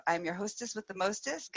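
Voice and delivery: ordinary delivery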